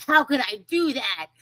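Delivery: high-pitched, hammed-up dismay; mock self-reproach. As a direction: act out beating yourself up. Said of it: "And then to themselves".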